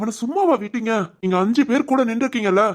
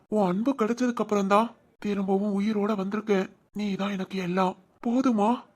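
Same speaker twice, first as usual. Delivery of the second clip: tender vows; 4 dB quieter than usual. Acted. Soft vows to his crying girlfriend.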